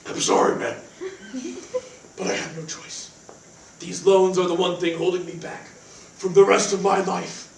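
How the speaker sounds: low hushed brooding killer voice; assassin's voice. Acted. Dan tells roommate Cody about the call in his assassin voice, low and hushed. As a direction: mutter it like a grim movie assassin. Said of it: "it's my assassin's voice".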